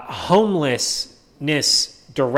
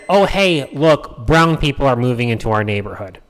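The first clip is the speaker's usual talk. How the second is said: mocking liberal voice; 4 semitones lower than usual. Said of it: "dog whistle that says".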